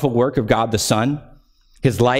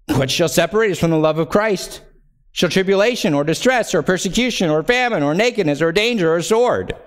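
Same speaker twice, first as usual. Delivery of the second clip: raised, ringing scripture reading; 8 semitones higher than usual. Acted. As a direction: proclaim the verses like a preacher. Reads scripture aloud, raised.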